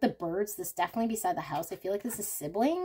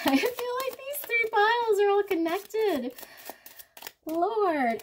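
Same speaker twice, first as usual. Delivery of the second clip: laughing through the words, pitched up and louder; half-laughing in disbelief; 6 dB louder than usual. Real, not acted. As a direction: giggle as you read it out. Laughing at ominous card spread.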